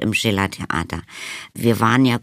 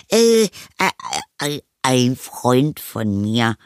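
put-on flustered boy; 3 semitones higher, slower than usual. A narrator's reading. Anton explains the hidden friend, flustered stammer. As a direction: stall on each sound like a caught child. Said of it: "sagte er schnell".

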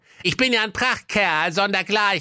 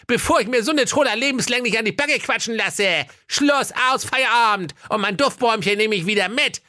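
high put-on ranting hero; snapping. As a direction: tell her off, fed up. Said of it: "blaffte die Prinzessin an". (Maiko blafft die Prinzessin an, hohe Stimme)

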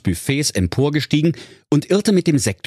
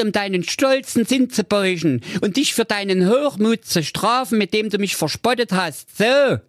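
lightly higher, self-satisfied confession; smug Mirko; 10 semitones higher than usual. Acted. Mirko revealing his disguise to Jacqueline, smug and higher. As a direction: gloat kindly while revealing the trick.

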